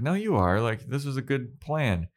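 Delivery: high, insistent reassurance; earnest protest. Retold or imitated. Dawn reassures Buffy, acted.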